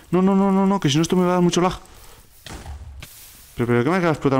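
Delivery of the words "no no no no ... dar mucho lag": high, rattled string of no's; worried and flustered, pitched up; panicked protest. Real, not acted. Panics as forest fire spreads.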